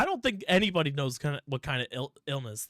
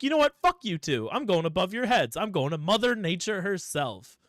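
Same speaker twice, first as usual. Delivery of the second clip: high, loud huffy wife; indignant Mrs Claus; 4 semitones higher, 5 dB louder than usual. Retold or imitated. Mrs Claus telling off the brothers, loud and indignant. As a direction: storm off in a huff, loudly. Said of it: "Missus Claus is like".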